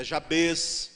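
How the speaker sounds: "Jabes" with stress on the last syllable, ja-BES; Hebrew stress. Shown as a demonstration. Pastor showing the congregation Hebrew name stress, ja-BES. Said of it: "a tônica das palavras hebraicas sempre é no final".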